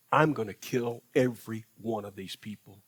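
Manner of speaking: God warns Moses he will destroy everyone, lightly voiced low; stern God, low and measured. God tells Moses of judgment, low and measured.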